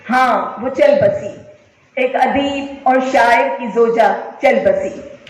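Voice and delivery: measured, declaimed verse with pauses between phrases; solemn mushaira-style reading; poem recitation. Acted. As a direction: recite your poem to a live audience, lingering on each line. Recites her own poem to audience.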